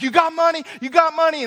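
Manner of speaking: retold shouting. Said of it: "he's just screaming and shouts".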